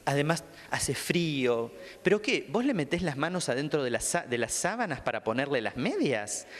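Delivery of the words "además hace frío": mock echo. Shown as a demonstration.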